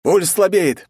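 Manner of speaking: doctor shouting loud. Acted. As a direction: call it out urgently. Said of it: "прокричал один из них".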